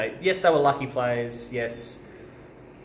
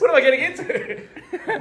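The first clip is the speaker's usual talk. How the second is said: mock voice; 4 dB louder than usual. Mock voice, laughing.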